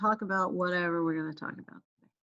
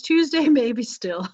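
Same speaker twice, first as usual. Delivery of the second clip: laughing; 3 semitones higher, 6 dB louder, slower than usual. Real, not acted. Jokes about late deadline.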